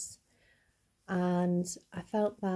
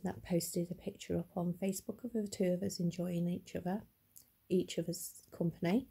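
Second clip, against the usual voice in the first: stammering from being upset; words catch and repeat; stuttering; 4 dB quieter than usual. Real, not acted. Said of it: "excuse me if I'm stuttering".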